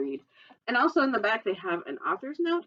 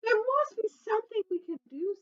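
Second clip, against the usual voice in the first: determined bird; 13 semitones higher than usual. Acted. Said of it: "said Looney Little".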